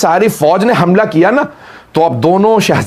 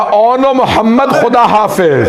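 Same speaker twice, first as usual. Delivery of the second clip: anguished cry; 4 semitones higher than usual. Acted. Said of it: "तड़प के कहा".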